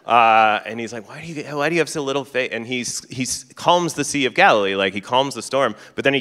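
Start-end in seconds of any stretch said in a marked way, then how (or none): 1.1-2.5 quick, higher-pitched mock exasperation; fondly annoyed, hurried complaint. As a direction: retell it as a put-upon, just-woken grumble. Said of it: "he's so annoyed to have been woken up".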